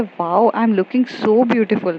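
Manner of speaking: slow dreamy admiration. Retold or imitated. Admiring herself in mirror.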